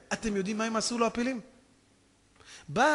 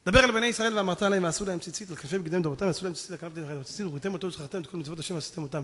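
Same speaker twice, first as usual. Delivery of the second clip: scripture recitation; 3 semitones lower, much faster than usual. Real, not acted. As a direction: rattle off the verses from memory.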